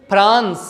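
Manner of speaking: France with puffed P for F; France starting on aspirated P; wrong pronunciation. Shown as a demonstration. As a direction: say France as "Phrans" with a P. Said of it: "will not pronounce the word as".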